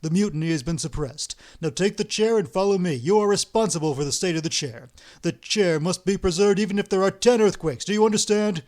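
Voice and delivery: loud, stern orders; stern command. Acted. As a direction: lay down the law to the old man. Ostap lays down orders.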